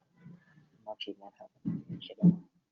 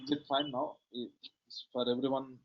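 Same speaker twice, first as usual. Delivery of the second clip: barely audible; 3 semitones higher, 10 dB quieter than usual. Real, not acted. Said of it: "It is still low".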